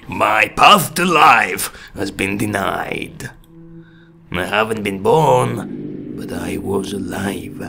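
a hint of a deep ghost child; deep-voiced child. Reading the unborn child's lines, lightly deep voice. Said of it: "έχει πάρα πολύ βαθιά φωνή".

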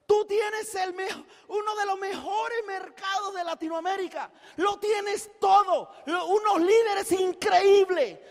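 arenga emotiva. Real, not acted.

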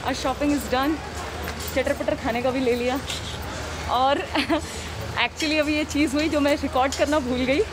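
muffled speech behind mask; through a face mask. Real, not acted. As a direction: mouth covered by cloth. Seen 1: Cloth mask covers mouth and nose throughout; pulled down earlier while eating.

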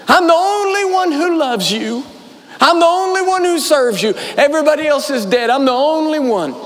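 a mock whining complaint that builds up; self-pitying whine. Elijah complaining to God that he alone is left, whiny.

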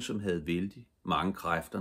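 ordinary delivery

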